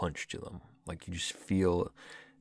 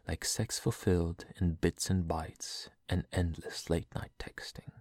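poem reading; slower than usual. Acted. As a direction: read it like a tender poem. Reads a poem aloud.

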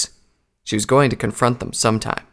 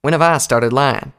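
louder, higher affronted question; indignant; 4 semitones higher, 5 dB louder than usual. Acted. Applejack challenges doubt of her word, indignant. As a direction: throw the question back, offended. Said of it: "Applejack answered indignantly".

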